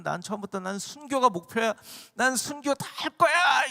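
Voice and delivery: a hint of a cocky disciple; mock boastful vow. Preacher mimics disciples boasting of martyrdom, lightly voiced brag. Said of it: "이러면서 한 게 아니에요".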